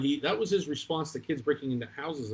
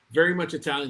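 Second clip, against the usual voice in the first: Italian guy voice; 4 semitones higher, 7 dB louder than usual. Retold or imitated. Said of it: "He talks like this".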